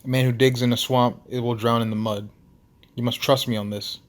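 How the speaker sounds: put-on Russian-accented proverb of warning; Nikolai. Russian lighthouse keeper explaining his warning, Russian accent. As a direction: caution them in an amateur Russian accent. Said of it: "his Russian accent thick enough".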